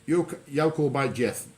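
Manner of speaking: "You call by Jeff" in broad Black Country, can't as "call", beat as "by", death as "Jeff"; Black Country phrase at a normal pace; Black Country dialect. Shown as a demonstration. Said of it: "So that's you can't beat death".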